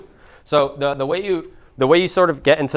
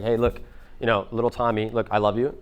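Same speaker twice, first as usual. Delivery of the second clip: softer, tender reassurance; talking to a child; 3 semitones lower, 6 dB quieter than usual. Acted. Parent to little Tommy, soft and loving. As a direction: get down to a kid's level, gently. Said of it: "if you talk to a little kid".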